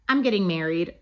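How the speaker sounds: laughing through the line; can't hold back a laugh while quoting it. Retold or imitated. Laughing while quoting own text.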